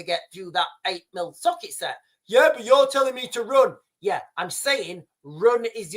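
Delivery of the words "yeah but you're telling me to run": mocking commenter.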